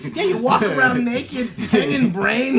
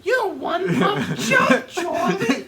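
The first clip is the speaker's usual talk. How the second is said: laughing taunt; 7 semitones higher than usual. Pretend. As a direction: shout the jeer through laughter.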